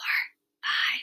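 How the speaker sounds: soft, quiet whisper. Demonstrating a counting exercise, whispering these numbers. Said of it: "say these numbers and whisper".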